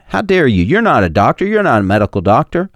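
high, mock outraged retort; mock indignation. Critics scolding the host for doubting the vaccine, mock outrage. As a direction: play the offended critic scolding him. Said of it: "people get mad".

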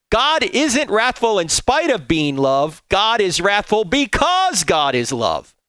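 slow, weighty reread of both lines. Shown as a demonstration. Preacher rereading Volf's quote so it sinks in, slow and weighty. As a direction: let every word land, slowly. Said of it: "Let me read that again".

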